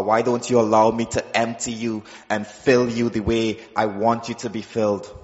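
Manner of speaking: low, soft, tender voice of the Lord; voice of God. Retold or imitated. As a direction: speak as a gentle loving God, low and hushed. God speaks to him in testimony.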